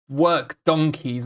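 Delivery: "donkeys" leaned on and drawn out slowly; slow down and hit "donkeys" hard; stress on donkeys. Real, not acted. Fan mocking midfielders to stream, slow stress on "donkeys". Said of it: "I emphasize the word donkeys".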